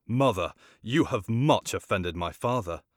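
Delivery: cutting reproach to mother; sharp reply. Acted. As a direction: snap back at his mother with edge. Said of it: "with some sharpness replied".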